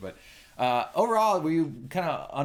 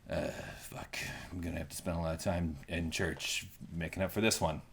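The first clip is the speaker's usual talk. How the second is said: whisper; 7 semitones lower, 7 dB quieter than usual. Real, not acted. Embarrassed after mock confession.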